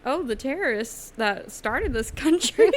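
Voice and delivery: high, sneering sarcastic put-on; mock the hypocrites. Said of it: "being like".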